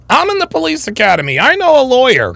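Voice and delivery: high, fast mocking imitation; mocking drunk woman. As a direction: parrot her back, smug and quick. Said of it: "drunk bitches think they know the law".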